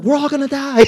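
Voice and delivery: very high, loud hammed-up panic; mock panic. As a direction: wail it like the boat is sinking. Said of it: "Thomas is like".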